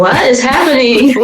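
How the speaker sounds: high-pitched mock bewilderment; baffled alarm. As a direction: act out baffled medical staff. Staff baffled by crashing sugar.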